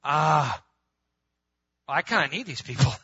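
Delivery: a loud sudden Ah, then the thought; dawning realisation. Retold or imitated. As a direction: let it dawn on you aloud. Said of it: "dawning moment".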